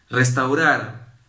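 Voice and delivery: Restaurar said slow and loud, falling at the end; slow, weighty Restaurar; stress on restaurar. Shown as a demonstration. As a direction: lean hard on Restaurar, drawn out. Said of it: "no hundir".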